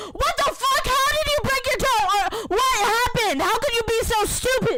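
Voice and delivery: acted, shrill, very high, angry yelling. Retelling calling her dad about a broken toe, retelling dad yelling. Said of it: "and he yelled at me".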